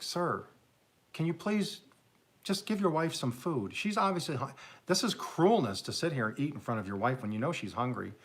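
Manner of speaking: acted indignant appeal; annoyed waiter. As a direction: plead on the wife's behalf, a touch annoyed. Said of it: "The waiter is getting a little annoyed".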